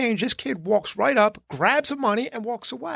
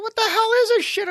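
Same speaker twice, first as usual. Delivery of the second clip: retold exasperation; 12 semitones higher than usual. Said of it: "I was like".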